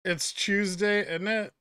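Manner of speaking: light British accent, Tuesday said as "tooz-day"; London-ish British accent. Shown as a demonstration. Streamer imitating how a Brit says Tuesday, light London accent. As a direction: say "It's Tuesday" with a soft London lilt. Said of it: "that's more like London".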